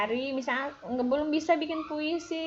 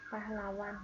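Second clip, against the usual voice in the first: barely audible, much softer mumble of pahlawan; too quiet to hear; 2 semitones lower, 11 dB quieter than usual. Shown as a demonstration. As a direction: mumble pahlawan so it can't be heard. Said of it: "Nggak kedengeran".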